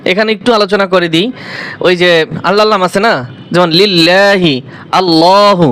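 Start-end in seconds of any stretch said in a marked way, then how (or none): 3.8-4.5 লিল্লাহি with a light 'laa', held long; slow recitation of লিল্লাহি, lam kept light. Shown as a demonstration. 5.0-5.7 আল্লাহু with a thick, dark 'law'; heavy lam. Shown as a demonstration. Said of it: "ল, মোটা হয়েছে".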